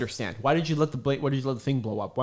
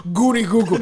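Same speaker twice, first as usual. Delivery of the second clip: mild high goofy chant; sing-song the nonsense phrase; goofy Eddie Murphy voice; 5 semitones higher, 6 dB louder than usual. Retold or imitated. Quoting Eddie Murphy's joke, goofy sing-song. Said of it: "I said".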